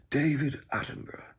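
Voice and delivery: loud, voiced documentary narrator; David Attenborough. ASMR host switching voices for listeners, narrator impression. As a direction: break from whisper into narrator impression. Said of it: "I may go into a bit of".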